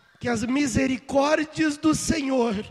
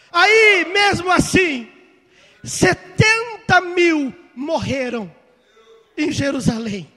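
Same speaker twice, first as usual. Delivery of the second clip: preaching shout; 3 semitones higher, 6 dB louder, slower than usual. Real, not acted. Preacher thundering the toll to the congregation, slow shout. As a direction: drive the death toll home slowly.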